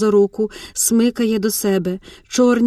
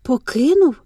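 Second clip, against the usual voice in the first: plain reading voice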